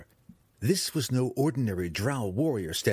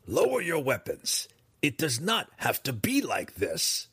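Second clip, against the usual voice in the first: raised, urgent call; higher-pitched urgent call; calling out to him; 5 semitones higher than usual. A narrator's reading. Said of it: "Briza said loudly".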